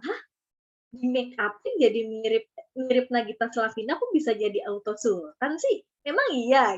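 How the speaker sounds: puzzled questioning, rising on sih; curious disbelief. Shown as a demonstration. Teacher shows how to hook viewers, curious rising questions. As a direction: sound intrigued so viewers wonder. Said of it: "Pakai intonasinya, bikin orang jadi penasaran".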